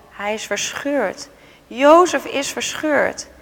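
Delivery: slow, broken-hearted lament; grieving. Acted. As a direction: let the grief sink in, slowly. Father grieves over son. (langzaam en bedroefd)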